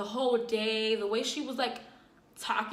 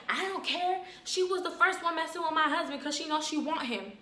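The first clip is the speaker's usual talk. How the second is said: auntie retort; 5 semitones higher than usual. Retold or imitated.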